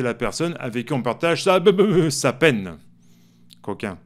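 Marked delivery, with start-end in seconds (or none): none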